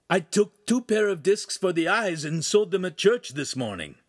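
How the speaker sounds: lightly voiced keen youth; eager apprentice reporting. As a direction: proudly report to the master.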